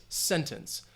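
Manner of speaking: "sentence" stressed on SEN, second syllable reduced; stress on first syllable. Shown as a demonstration. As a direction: softly model SEN-tence. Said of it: "I think that stress".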